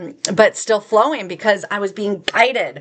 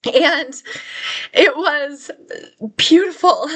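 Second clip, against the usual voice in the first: tearful; 6 semitones higher, slower than usual. Real, not acted. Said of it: "I'm gonna start crying right now".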